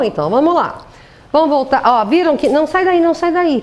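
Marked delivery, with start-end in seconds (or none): 2.5-3.0 urgent no. Real, not acted. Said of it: "telling the slide to go back". 3.0-3.6 urgent no again. Real, not acted. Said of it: "repeats the command".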